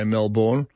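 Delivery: MELBOURNE with a full born at the end; Melbourne with its second vowel given in full; American-style Melbourne. Retold or imitated. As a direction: say Melbourne as Mel-born, as spelt. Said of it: "in America they all say".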